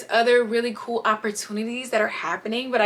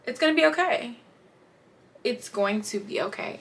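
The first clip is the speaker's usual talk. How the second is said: reassuring; 5 dB quieter than usual. Retold or imitated. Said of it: "me and my bestie always say".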